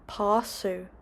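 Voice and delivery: "pásu" with an emphasized "aw" in the first syllable; fada like "ah". Shown as a demonstration. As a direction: stress and open the first vowel of "pásu". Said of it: "it's like ah".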